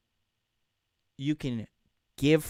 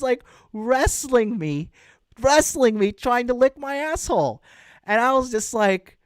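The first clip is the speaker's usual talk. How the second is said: normal talking voice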